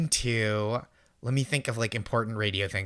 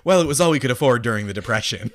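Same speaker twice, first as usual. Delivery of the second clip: put-on old-timer voice; 5 dB louder than usual. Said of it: "make me sound like".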